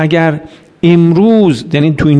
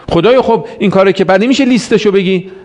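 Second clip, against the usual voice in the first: cheeky plea to God; 4 semitones higher than usual. Retold or imitated.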